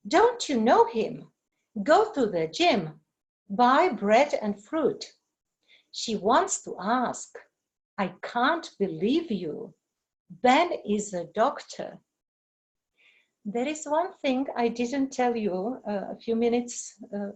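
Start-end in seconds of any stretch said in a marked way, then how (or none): 0.1-12.0 longer sentences said with clearly marked stressed words; deliberate beat on the stressed words; rhythm pattern demo. Shown as a demonstration. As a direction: model the stress pattern for the class. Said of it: "such as".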